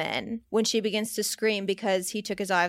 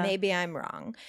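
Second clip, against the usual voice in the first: whispered aside; 2 semitones lower, 6 dB quieter than usual. Real, not acted. Aside after a strong claim.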